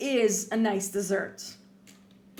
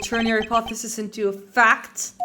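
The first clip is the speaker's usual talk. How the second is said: daring rival; 6 dB louder than usual. Acted. Rival dares the prosecutor to show evidence, louder. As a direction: throw down the challenge.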